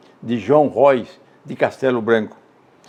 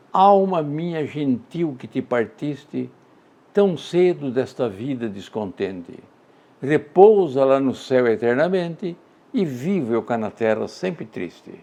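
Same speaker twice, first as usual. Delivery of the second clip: poem recitation. Acted. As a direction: let the grief settle on each line. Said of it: "Um trecho de Camões".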